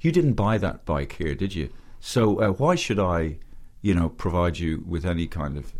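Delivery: lightly put-on Dublin shopkeeper; mildly embellished Dublin accent. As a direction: retell it with a touch of Dublin. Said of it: "I'm putting on the Dublin accent".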